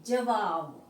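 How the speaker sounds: जवाब sounded out syllable by syllable; mispronunciation demo. Shown as a demonstration. Teacher showing students the wrong word, जवाब stretched out. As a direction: draw out जवाब with an emphatic second syllable. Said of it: "जवाब गलत है".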